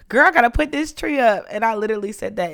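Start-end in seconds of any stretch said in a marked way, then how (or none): 0.1-1.4 mom's urgent line, pitched higher and louder; a mock-frantic mother rushing to decorate; imitating mom. Daughter quoting her mom fretting over the tree, mock frantic. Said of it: "my mom was talking about".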